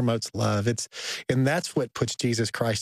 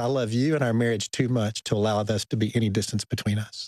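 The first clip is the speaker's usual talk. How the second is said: ordinary talk, nothing marked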